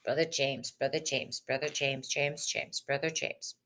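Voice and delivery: soft sing-song chant of his name, fading down; hushed calling. Pretend. Tarot reader softly chanting brother James' name, hushed.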